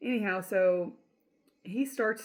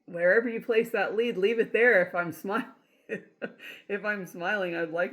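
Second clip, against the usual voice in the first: laughing plea; 3 semitones higher, 6 dB louder than usual. Retold or imitated. Joking plea to leave the lead.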